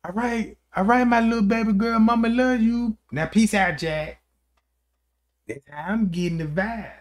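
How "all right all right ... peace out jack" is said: put-on slurred, fast old drunk voice; town drunk. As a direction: read it like a sloppy old drunk. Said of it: "That sound like an old drunk".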